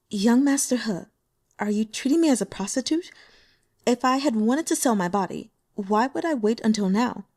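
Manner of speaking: lightly voiced demure young woman, teasing hurt; Xu Yanyan voiced.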